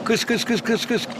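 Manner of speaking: quick evenly repeated hissy chirps; bird call demo. Shown as a demonstration. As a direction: imitate a bird's kıs notes. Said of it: "K harfinden". (kuş sesi taklidi)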